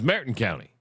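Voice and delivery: "Meritten" for Marathon, TH turned to T; local Wisconsin pronunciation. Shown as a demonstration. Host quoting how locals name the county, "Meritten" with no TH. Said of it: "is the T H sound".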